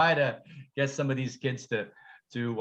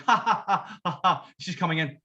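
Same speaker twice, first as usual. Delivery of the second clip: mock laughing. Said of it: "and at first I'm going".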